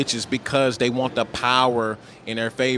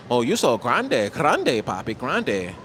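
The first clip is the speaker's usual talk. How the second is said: mock seductive accent; slower than usual. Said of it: "She throw that accent on you".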